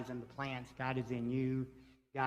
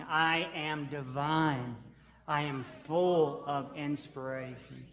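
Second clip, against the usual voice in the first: slow, weighty affirmation with power; with dominion; 3 dB louder, slower than usual. Shown as a demonstration. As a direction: own every word, slowly and with authority. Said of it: "actually say it with dominion, say it with power, say it with meaning".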